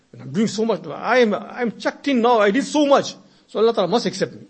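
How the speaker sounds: mock self-admiration. Voicing self-admiring worshipper.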